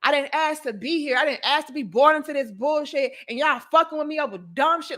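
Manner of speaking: mild mock outburst of frustration; retold despair. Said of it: "I was mad".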